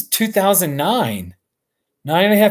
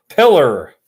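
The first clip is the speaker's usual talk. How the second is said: Pillar said through a chuckle; can't keep a straight face on Pillar; laughing; 4 dB louder than usual. Real, not acted. Laughs at own joke.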